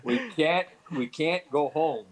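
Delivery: retold firm refusal, drawn out; insistent. Husband to Mildred who wants to go home, insistent.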